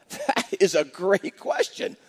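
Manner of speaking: slow, drawn-out marvelling reply; imitating someone slowly taking in a question; struck by a question. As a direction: stretch it out as if truly struck. Stumped man answering retold question.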